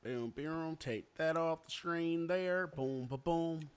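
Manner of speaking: slow, drawn-out redneck drawl. Pretend. Host fiddling with the screen, redneck voice. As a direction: put on a slow redneck twang. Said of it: "That's my redneck voice".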